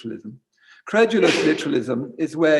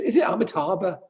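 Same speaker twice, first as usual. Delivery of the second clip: higher-pitched camp Scottish, laughing; bad Scottish accent; 5 semitones higher than usual. Imitating the Scottish man on retreat, bad camp Scottish accent. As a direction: try a camp Scot and miss, amused. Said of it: "I can't do a Scottish accent".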